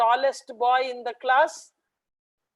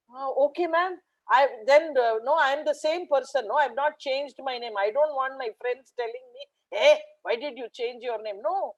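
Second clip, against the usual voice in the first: put-on child's voice; 2 semitones higher than usual. Boy answers teacher.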